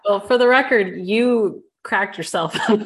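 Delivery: amused protest through real laughter; laughing. Real, not acted. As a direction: tease your co-host while cracking up. Co-hosts cracking up on air.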